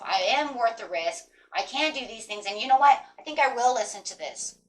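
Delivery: steady, determined affirmation; affirming self. Retold or imitated. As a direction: say it like you mean it. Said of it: "tell yourself".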